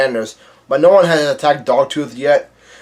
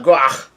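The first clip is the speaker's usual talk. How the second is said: throaty mock retch of pain; mock pained yell. Capone coughing out blood, mock pained cry. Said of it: "Capone yells out".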